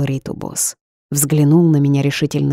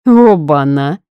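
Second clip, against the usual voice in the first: slangy exclamation; 7 dB louder, slower than usual. A narrator's reading. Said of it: "перешёл на сленг Руслан".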